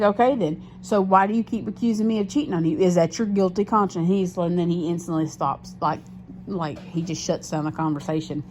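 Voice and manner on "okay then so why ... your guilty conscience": louder, higher pointed question; triumphant accusation. Retold or imitated. Retold to viewers, she corners her boyfriend, loud.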